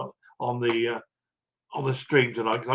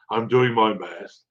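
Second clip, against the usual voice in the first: I'm doing my best drawn out slow and lower; slower, lower self-deprecating echo; slow, rueful repeat; 4 semitones lower, slower than usual. Real, not acted. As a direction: repeat it slowly like a sigh of resignation.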